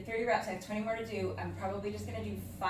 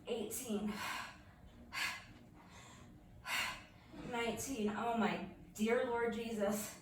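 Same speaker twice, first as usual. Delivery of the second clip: strained counting through burning abs; doing crunches; 3 dB quieter than usual. Real, not acted. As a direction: push each number out with effort. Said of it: "My abs are on fire".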